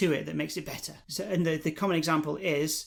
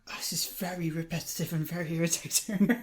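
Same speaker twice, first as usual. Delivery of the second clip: mock whisper. Real, not acted. Mock complaint about repeated greeting.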